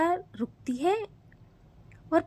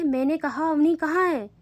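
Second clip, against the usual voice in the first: louder angry repeat; angry demand; 4 semitones higher, 5 dB louder than usual. Acted. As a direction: insist furiously. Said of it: "पायल गुस्से से कहती है".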